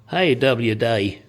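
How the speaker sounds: slow, hammed-up silly accent greeting; mock a silly accent, drawing it out slowly; a slow, goofy silly-accent "Hey"; silly put-on accent. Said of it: "I put on that silly accent".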